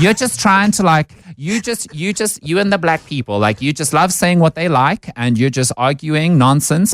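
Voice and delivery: high mocking white South African accent. Quoting racist white trolls to the podcast hosts, mocking white South African accent. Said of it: "in exactly this accent".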